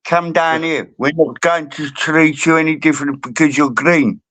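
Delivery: put-on joke-telling South African accent. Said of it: "Did you get the South African accent".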